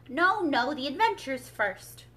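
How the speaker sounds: loud, brushing it aside; impatient. A narrator's reading. Gryphon cutting off the Mock Turtle, impatient. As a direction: wave the request away. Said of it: "in an impatient tone".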